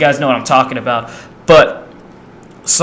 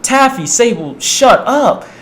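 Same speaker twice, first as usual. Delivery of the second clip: higher, calling out to the dogs; yelling at dogs; 7 semitones higher, slower than usual. Retold or imitated. Owner calling out to noisy dogs Taffy and Sable, annoyed. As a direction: snap at the barking dogs.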